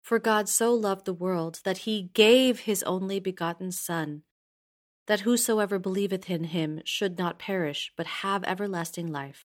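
gave stretched and pushed up; stress on gave. Shown as a demonstration. Teacher showing sacrifice in the verse, stress on gave. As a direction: lean hard into the word gave. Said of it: "shows what happens when you emphasize different words".

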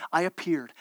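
solemn God voice. Acted.

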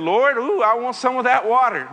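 a touch of keen wanting, voice lifted; eager Samaritan woman. Acted. Samaritan woman answering Jesus at the offer of water, lightly acted eagerness. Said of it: "And she said".

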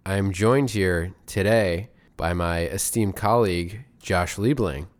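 stiff, sophisticated robot voice; robotic staccato. Pretend. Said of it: "Are we talking like robots?".

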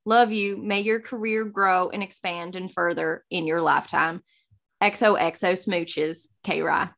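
imitated Southern accent. Reading a friend's congratulations message aloud in Southern accent. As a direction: read it out with a friendly Southern twang. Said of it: "Thank you for doing it in the accent".

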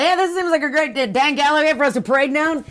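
high-pitched mock revelers; imitating giddy paraders; rowdy revelers.

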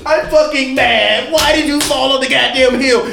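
mock LeBron rant. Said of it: "He just sat down on the hill and did this".

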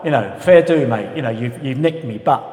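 lightly voiced Dagenham bloke, loud; chippy from Dagenham. Chippy bloke protesting at a speed awareness course, mock-indignant. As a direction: argue like an aggrieved Dagenham bloke, pushing the volume. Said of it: "There's the chippy from Dagenham".

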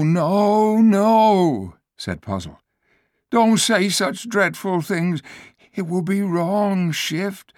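the frightened donkey pushing back; protesting donkey. Acted. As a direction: refuse it in alarm. Ape orders, donkey protests.

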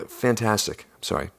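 ordinary delivery

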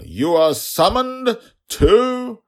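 shrill, high, loud yell cut off; guard yelling. Acted. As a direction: scream the summons and get cut off. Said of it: "The guard began to yell".

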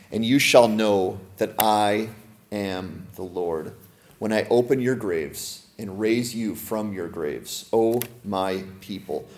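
slow, hushed reading of scripture; solemn scripture reading. Acted. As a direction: let each word of the prophecy land, slowly. Reads scripture slowly.

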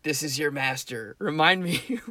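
lightly voiced mysterious master; mock-secretive voice in a sleeper's ear, barely disguised; disguised master's voice. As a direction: play the hidden master, only slightly put on. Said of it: "Disguising my voice, I would quietly whisper".

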